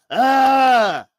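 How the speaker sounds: ordinary delivery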